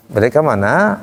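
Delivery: Sundanese lilt, bending up on MANA; curving Sundanese intonation. Shown as a demonstration. Teacher demonstrates Sundanese question, melody bent upward. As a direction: curve the tune like a Sundanese question. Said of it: "kayak gitu melengkung".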